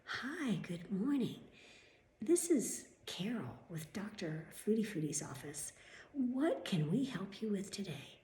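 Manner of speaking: slow, drawn-out phone greeting; put-on, overly helpful office voice; mock receptionist. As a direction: imitate an affected receptionist. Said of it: "I would hear them answer the phone".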